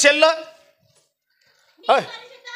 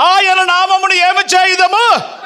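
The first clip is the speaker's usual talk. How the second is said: calling out; 5 semitones higher, 4 dB louder, much slower than usual. Real, not acted. Preacher calls out to the reader.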